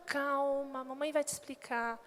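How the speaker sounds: put-on quiet mother comforting her child; soft motherly. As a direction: hush a crying child. Mother soothing crying child.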